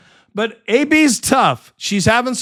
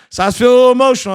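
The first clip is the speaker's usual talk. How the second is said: emotional rush; 4 semitones higher, 4 dB louder, much faster than usual. Real, not acted. Rushed emotional admission.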